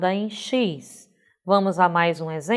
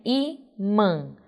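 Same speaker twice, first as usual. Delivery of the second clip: "Imã" in two syllables, stressed I, nasal ã; 4 dB quieter than usual. Shown as a demonstration. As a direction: separate I-mã, leaning on the I. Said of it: "A acentuação gráfica aí é no i". ("Imã" com I tônico e final nasal)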